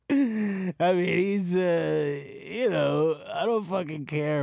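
high, loud worked-up sputter. Real, not acted. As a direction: fumble heatedly for words. Heated defense of Han Solo.

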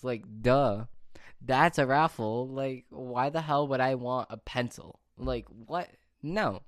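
incredulous, emphatic complaint; indignant rant. Real, not acted. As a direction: scoff at a rubbish prize, punching key words. Scoffing at the pencil prize.

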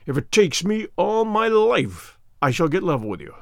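a prisoner's measured threat at his captor, slow and deliberate. Acted. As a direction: spell out the vow of revenge slowly. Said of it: "speaking with slow deliberation".

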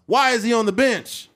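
high, loud rhetorical question; exasperated outburst. Real, not acted. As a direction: cry out in disbelief at the coaching. Exasperated rhetorical question about benched player.

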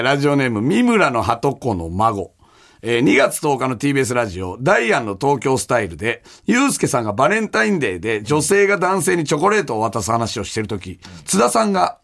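even-paced radio mail reading; listener letter read-out. Acted. Host reading a listener's mail about Tsuda on the radio, measured read-aloud.

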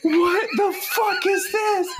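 slow, high, incredulous cry through laughter; laughing disbelief. Real, not acted. Co-host staring at the horrible photo, laughing disbelief. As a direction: draw it out, appalled and laughing.

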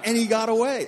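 hammed-up missed-chance lament; mock villain lament; mock villain regret. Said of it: "he's gonna be like".

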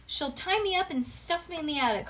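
high, dramatic mock holler; hollering child. A narrator's reading. Bean warns parents about her sister, hollering in a high voice. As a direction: complain as if doomed. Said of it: "hollered Bean".

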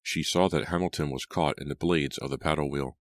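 plain reading voice

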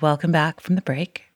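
smooth radio host voice. Shown as a demonstration. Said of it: "Should I do a radio voice?".

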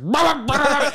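high, yappy mock barks; imitated dog barking. Imitating the poodle answering back, yappy barking. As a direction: bark like an indignant little poodle.

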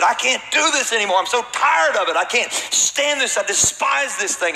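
desperate retold plea. Retelling plea to the bishop.

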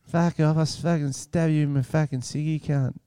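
put-on Australian accent. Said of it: "Australian one".

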